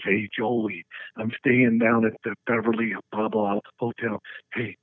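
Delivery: lazy drawling ask for weed; Jesse impression. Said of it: "It sounds just like him".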